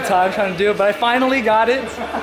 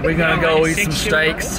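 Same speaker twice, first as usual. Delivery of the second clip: Texan accent; 4 semitones lower than usual. Shown as a demonstration. Showing a friend what a Texan sounds like, Texan accent. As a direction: put on a low cowboy Texan accent. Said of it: "That's my Texan accent".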